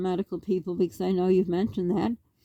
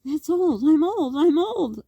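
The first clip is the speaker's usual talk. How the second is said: put-on childlike voice; 6 semitones higher, slower than usual. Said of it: "we always thought".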